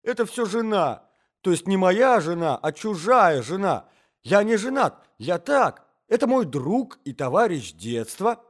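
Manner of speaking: high, loud, flustered excuses; tearful protesting. A narrator's reading. Cornered intruder blaming a wife, tearful protesting. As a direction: blurt confused excuses, mildly tearful. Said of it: "рыдая и всхлипывая".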